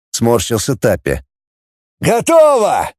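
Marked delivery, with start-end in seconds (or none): 2.0-2.9 high shout of «Готово!»; shouting it's done; calling out. A narrator's reading. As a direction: call from inside the bot. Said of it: "крикнул Капаныгин".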